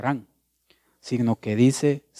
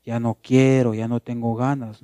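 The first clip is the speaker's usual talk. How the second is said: complaining. Retold or imitated. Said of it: "vivan quejándose y quejándose".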